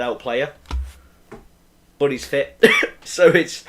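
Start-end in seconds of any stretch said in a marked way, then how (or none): 2.0-3.6 hiccuping mid-sentence; speech broken by chest hiccups. Real, not acted. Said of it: "sorry, excuse my hiccups".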